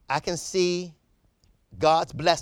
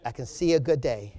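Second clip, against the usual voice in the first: calm wife; 3 semitones lower than usual. Retold or imitated. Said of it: "She still".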